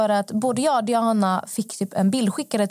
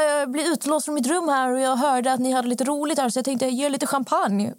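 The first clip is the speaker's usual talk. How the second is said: imitated man at door; 4 semitones higher than usual. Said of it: "Han bara".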